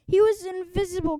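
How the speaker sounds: put-on a boy selling a spooky story; mock frightened exclaim; scared cry. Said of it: "cried George".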